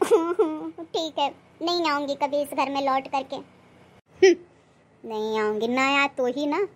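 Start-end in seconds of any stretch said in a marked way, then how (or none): 0.0-1.3 a slow, bitter laugh into the words. Acted. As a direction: laugh it off slowly, hurt underneath. Mocking rival sends her away. (कड़वी धीमी हँसी के साथ)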